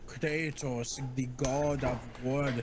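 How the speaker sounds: amateur Scottish Kratos commentary; attempted Scottish accent. Friend hailing the god of war, attempted Scottish accent. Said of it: "I wish I could do a better Scottish accent".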